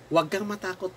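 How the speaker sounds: softly spoken comfort; mildly hushed, calming words; gentle reassurance. Retold or imitated. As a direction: quote it quietly, to reassure. Preacher voices God's reassurance.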